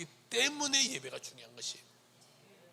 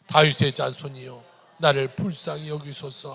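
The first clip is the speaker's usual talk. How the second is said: loud steady recitation; reading scripture aloud; 3 semitones lower, 9 dB louder than usual. Real, not acted. Preacher reading Mark aloud with the congregation, recitation. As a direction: read the verse out together. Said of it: "같이 한번 읽을까요".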